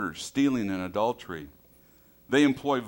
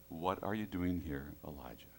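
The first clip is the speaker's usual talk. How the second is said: soft, lower, fading whisper-like call; gentle voice; 5 semitones lower, 11 dB quieter than usual. Acted. God speaks gently to Elijah in the cave, soft. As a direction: speak it as God's tender question. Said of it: "God had to speak to him in the gentle voice".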